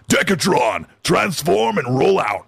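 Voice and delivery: slow, drawn-out heroic catchphrase; rally the robots with playful grandeur; put-on Transformers leader voice; mock robot-hero command. Mimics robot hero's rallying catchphrase.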